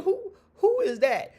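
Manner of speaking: high, laughing retold question; laughing disbelief. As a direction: ask it through a laugh, baffled. Confused at spouse's name.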